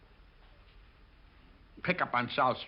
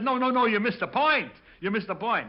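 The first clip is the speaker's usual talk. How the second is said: retold protest; 9 semitones higher, 6 dB louder than usual. Hoover arguing with Zanuck.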